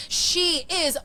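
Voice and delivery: slow, hammed-up Aussie accent, badly faked; bad Australian accent. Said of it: "Sorry for that really horrible Australian accent".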